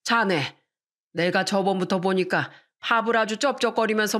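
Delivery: a hint of a stern old father lecturing; lightly voiced father-in-law, scolding. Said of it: "아빠가 몇 번 꾸중을".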